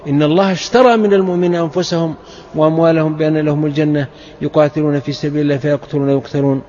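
steady, measured recitation tone; تلاوة قرآنية هادئة; Quran recitation. Acted.

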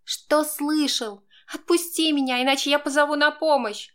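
she bites back, threatening to call for help; woman's voice, trembling and defiant; trembling snap. A narrator's reading. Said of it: "Дрожащим голосом огрызнулась она".

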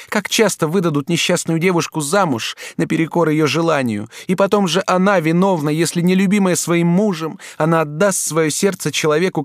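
duchess pleading. A narrator's reading. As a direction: lure him with tender promises. Duchess passionate dialogue. (герцогиня страстно уговаривает юношу)

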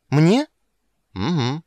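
put-on high, loud young girl's voice; a startled child squeaking back; little girl Ciri. Girl to Geralt, high and startled. Ciri's voice.

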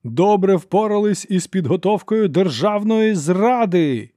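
slow, high, loud denunciation; archlector's peak of rage before the hall; furious climax. A narrator's reading. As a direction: spit out treason at full force. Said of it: "гримаса люті".

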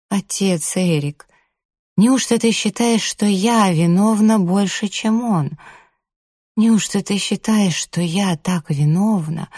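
high, anxious pleading; distressed pleading woman. A narrator's reading.

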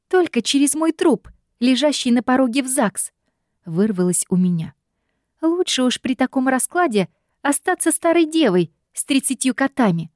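put-on high, offended young woman; high offended scolding; indignant heroine scolding. A narrator's reading. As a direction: put him in his place. Heroine blurts refusal.

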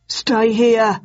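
a commanding shout. A narrator's reading. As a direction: bark the order at her. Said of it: "shouted Bucket".

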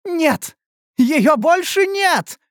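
overjoyed that the pain is gone; joyful relief. A narrator's reading. Pain finally gone, joy. (радостный возглас)

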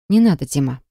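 soft, sorrowful refusal; quiet and sad. A narrator's reading. Wife refusing her husband's hug, quiet and sad. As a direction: pull away and say it gently, sadly. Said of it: "Тихо сказала она и очень грустно".

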